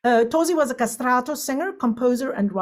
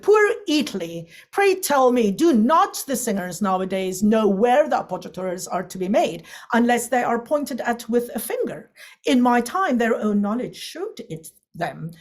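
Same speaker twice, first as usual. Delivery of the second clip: a touch of rhetorical indignation; mildly impassioned quote. Acted. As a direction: read it as a mild, theatrical lament. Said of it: "He has so much, um, passion".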